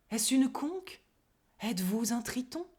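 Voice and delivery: dreamy, poetic wonder; lyrical. Acted. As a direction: float it like verse. (lyrique et rêveur)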